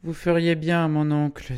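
high, loud put-on woman's voice; high-pitched, insistent advising; officious niece. A narrator's reading. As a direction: press advice on an uncle loudly. Madame Massin officiously advising her uncle.

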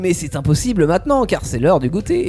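a pig eager for his snack; lightly voiced pig, hammed-up; grunting pig. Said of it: "Le cochon grogna".

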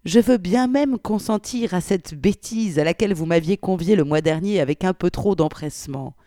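put-on expressive reading of an old letter; dramatic reading aloud; story narration. A narrator's reading. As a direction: voice a prim, flustered wartime godmother.

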